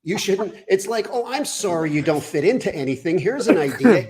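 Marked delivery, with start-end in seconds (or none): 1.1-4.1 sarcastic sorry, pitched up a little; sarcastic comic rant; mock apology. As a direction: feign sympathy, then turn it into an insult. Mock apology to overweight passengers.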